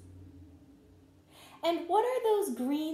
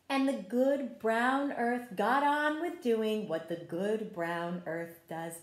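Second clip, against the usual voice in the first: story narration. A narrator's reading. Teacher reading a garden story to children, gentle read-aloud. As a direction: tell the story like a picture book at circle time. Reads picture book to children.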